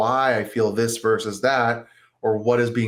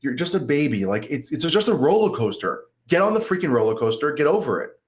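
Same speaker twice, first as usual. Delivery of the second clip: mildly exasperated, higher-pitched scolding of oneself; mock self-scolding; 4 semitones higher than usual. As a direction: berate yourself, but without really shouting. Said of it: "instead of yelling at myself and going".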